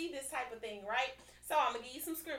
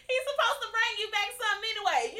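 emphatic repeat; 9 semitones higher, 10 dB louder, faster than usual. Real, not acted. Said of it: "repeats the line".

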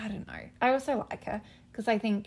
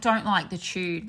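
Kath impression; 3 semitones lower, slower than usual. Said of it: "which is what Kath would have said".

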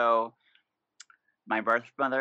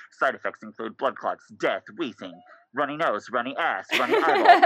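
mock drug ad voice; 3 dB louder than usual. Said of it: "Every fucking birth control commercial is like".

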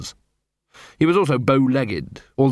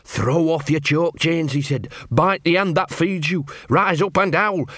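rousing leader quote; 5 semitones higher than usual. Retold or imitated. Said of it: "he told 'em".

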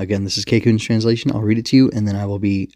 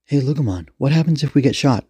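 put-on uneasy boy; 5 semitones higher than usual. Eiji nervously asks his partner.

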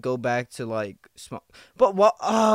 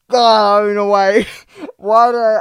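loud, high burst of laughter at his own words; laughing at himself; 6 semitones higher, 12 dB louder than usual. Real, not acted. To listeners, laughing off his animal-punching joke. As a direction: crack up at what you just said.

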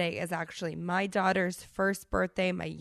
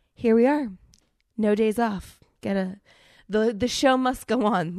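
rallying; 4 semitones higher, 7 dB louder than usual. Real, not acted. Pushing through sickness cheerfully.

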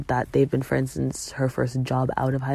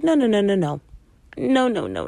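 emphatic refusal; 7 semitones higher, 3 dB louder than usual. Retold or imitated. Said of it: "I was like".

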